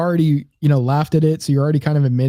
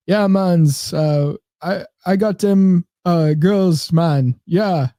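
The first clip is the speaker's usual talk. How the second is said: put-on Jamaican accent; 2 semitones higher, much slower than usual. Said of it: "I don't know if he actually has the Jamaican accent".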